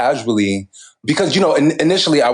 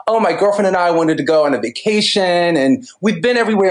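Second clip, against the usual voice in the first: lightly voiced Valley Girl alien; breezy Valley Girl lilt; 6 semitones higher than usual. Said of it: "in one of these Valley Girl voices".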